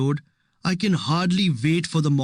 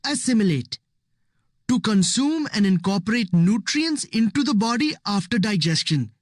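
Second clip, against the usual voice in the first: higher, bright-eyed eager answer; confident; 6 semitones higher than usual. A narrator's reading. Ravi answers the teacher confidently, eager to impress. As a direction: rattle off the answer, sure of yourself. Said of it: "I say confidently".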